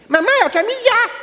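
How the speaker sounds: put-on shrill-pitched kid yelling in church; little boy shouting. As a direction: blurt it like a desperate small kid. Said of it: "ele só gritava".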